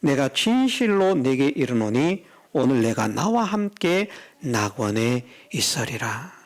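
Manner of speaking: measured pronouncement with a slow, softening close; solemn promise. Acted. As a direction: pronounce it solemnly, letting the ending sink. Preacher repeats Jesus' promise from scripture.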